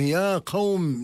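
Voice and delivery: high, slow drawn-out call to the tribe; calling out to his people. Retold or imitated. The Prophet calls his tribe from the hill, high and slow. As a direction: stretch out the call to gather the people. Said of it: "ينادي على قومه".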